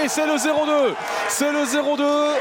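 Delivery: goal yell. Real, not acted. Goal call, repeated score.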